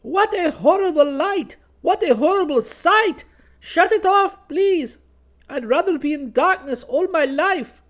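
very high, loud shrieked character voice; horrified scream. A narrator's reading. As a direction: shriek in horror at a dreadful sight. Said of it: "shut both her eyes and screamed".

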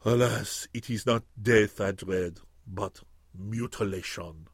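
low, fading murmur, slow at the end; a frightened duelist murmuring his fears; murmured in a broken voice. A narrator's reading. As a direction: let the voice break and sink away. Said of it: "he murmured in a broken voice".

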